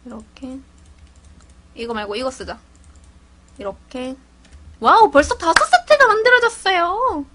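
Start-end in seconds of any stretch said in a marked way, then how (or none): 4.8-7.2 higher, louder gleeful announcement; proud burst of delight; excited. Real, not acted. Streamer showing viewers the crafted sets, excited.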